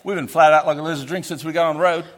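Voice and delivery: broad Australian, "flat out like a lizard drinking"; Aussie slang. Shown as a demonstration. Missionary showing the church Aussie slang, broad Australian. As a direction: play up the Aussie slang with relish. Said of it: "I'm gonna speak the Australian".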